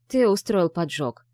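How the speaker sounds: slow, pointed accusation; accusing. Acted. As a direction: lay the blame on him. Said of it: "обвиняюще выпалила она".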